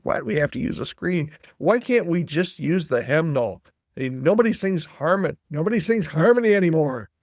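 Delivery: lightly voiced grumbling old man; a hint of a complaining old elder; old man Todd. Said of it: "with my old man Todd voice".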